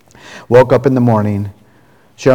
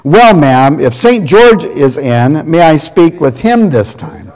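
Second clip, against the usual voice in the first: polite punchline; 4 semitones higher, 3 dB louder, slower than usual. Acted. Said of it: "let me do it again".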